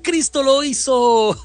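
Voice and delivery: imitated shout. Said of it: "Ya me la imagino gritando con ese acento dominicano".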